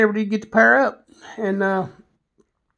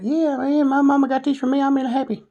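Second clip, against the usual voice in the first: friend's voice; 5 semitones higher than usual. Retold or imitated. Voicing his friend Paul.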